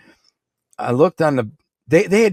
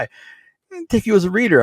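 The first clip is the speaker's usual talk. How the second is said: mob guy voice; 10 semitones higher than usual. Retold or imitated.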